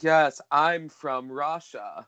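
put-on slow, hammy Russian accent; Malkovich. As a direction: draw it out in a bad Russian accent. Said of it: "I can just picture him be like".

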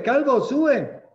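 drawn-out, loud, high singsong jeer; slow mocking taunt. A narrator's reading. Boys taunting the prophet again, slow loud singsong jeer. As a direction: stretch the taunt out to mock him. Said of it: "se burlaban de él".

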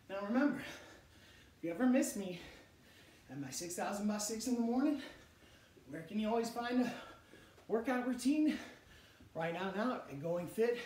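loud pitch for the program; excited plug. Real, not acted. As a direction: hype up the program.

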